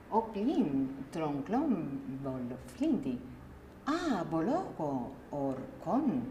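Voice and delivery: slow made-up elf language, meaning carried only by the tune; elvish gibberish. Shown as a demonstration. The coach demonstrates the gibberish exercise in slow invented elvish. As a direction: speak nonsense syllables slowly as if conversing. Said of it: "con lenguaje elfo".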